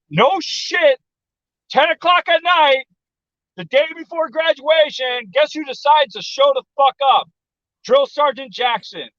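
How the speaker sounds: high, drawn-out suspenseful storytelling; dramatic reveal. Real, not acted. Storyteller revealing the sergeant's arrival at night, high dramatic build. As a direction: stretch each phrase up high for the big reveal.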